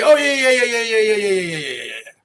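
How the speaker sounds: a sing-song mock of a poor reader, fading out; imitating someone stumbling over words; mock mumbling reader. Mocking a rival who cannot read. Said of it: "and it'll say".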